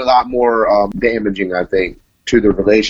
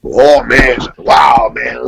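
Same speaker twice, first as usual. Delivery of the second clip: surprised outburst; 5 dB louder, much slower than usual. Real, not acted. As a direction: blurt it out, caught off guard and delighted. Asked about fatherhood, bursts out.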